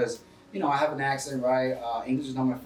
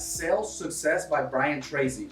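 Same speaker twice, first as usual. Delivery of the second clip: slow dictation; slower than usual. Shown as a demonstration. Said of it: "Write that down".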